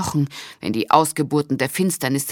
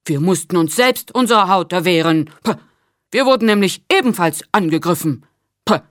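offended; 2 semitones higher, 5 dB louder than usual. A narrator's reading. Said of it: "Lateris klang beleidigt".

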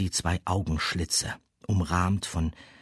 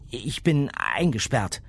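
put-on higher young girl voice; 6 semitones higher, 3 dB louder than usual. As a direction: speak up as a girl. Girl character speaks.

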